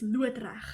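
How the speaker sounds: loodreg said the Afrikaans way, "loo-uh-treg" with a throaty ending; Afrikaans word. Shown as a demonstration. Explaining to English friends, saying loodreg the Afrikaans way. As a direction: say loodreg as a native Afrikaans speaker. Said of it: "that's the Afrikaans word".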